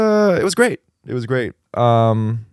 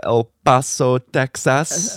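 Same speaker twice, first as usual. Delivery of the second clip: El Paso, Texas in a put-on Spanish accent; lightly hammed-up Spanish pronunciation; mock Spanish accent; slower than usual. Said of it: "Was that a Spanish accent?".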